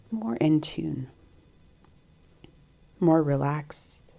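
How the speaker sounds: calm meditation guide, long pauses between phrases; guided meditation. Acted. Host guiding listeners to tune into breath and heart, calm meditation voice. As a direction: guide them gently inward, leaving space to breathe.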